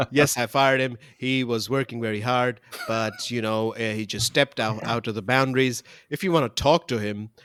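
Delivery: mildly deadpan PM spin; deadpan press statement. Retold or imitated. Ardern calmly explaining the firing to the media, deadpan official voice. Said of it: "goes out to the media and says".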